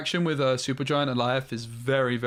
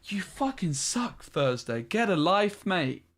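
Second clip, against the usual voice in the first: higher, playful jeering; mock insult; 6 semitones higher, slower than usual. Real, not acted. Streamer jeering at opponent Thursday, playful taunt. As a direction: jeer at the opponent.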